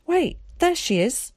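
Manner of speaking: put-on high, urgent boyish cry; excited calling out. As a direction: call out on spotting her. Boy spots his mother, calls out.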